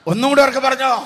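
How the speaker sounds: rallying shout to the congregation; calling out. Real, not acted. Urging congregation to answer louder.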